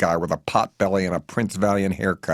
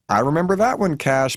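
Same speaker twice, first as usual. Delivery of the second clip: fond reminiscing; 8 semitones higher, 4 dB louder than usual. Acted. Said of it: "Bernice reminisces like the specialist she is".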